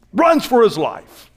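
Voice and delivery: shouted from the pulpit; preached shout. Shown as a demonstration. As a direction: hammer it home to the crowd.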